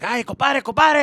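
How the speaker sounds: high, loud pleading to calm down; alarmed calling out. Retold or imitated. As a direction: call out urgently to restrain him. Relatives restraining the raging dad.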